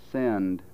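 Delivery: "send" with the vowel gliding to schwa; diphthongized toward schwa. Shown as a demonstration. Phonetician showing English glide, "send" drifting toward schwa. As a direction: say "send" as "seh-uhnd". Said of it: "frequently diphthongizes toward".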